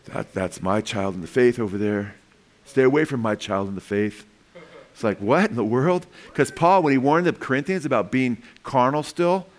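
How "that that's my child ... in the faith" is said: low-pitched mock possessiveness; possessive. Spiritual parent warning others off their convert, mock possessive. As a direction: claim the child as yours in a lower voice. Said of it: "And then become possessive".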